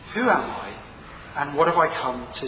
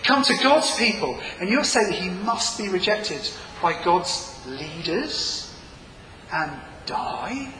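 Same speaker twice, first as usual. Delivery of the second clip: shocked disbelief; 5 semitones higher than usual. Retold or imitated. A listener hearing the news, shocked and outraged. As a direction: protest as if it's a bad joke. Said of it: "your reaction should be".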